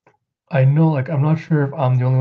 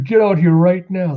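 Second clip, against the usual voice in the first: shouted demand; 6 semitones higher, 4 dB louder than usual. Retold or imitated.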